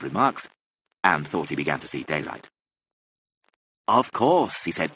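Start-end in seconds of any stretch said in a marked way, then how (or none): 3.9-4.6 loud, high, deliberate; speaking up for the deaf. A narrator's reading. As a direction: project it to a deaf listener.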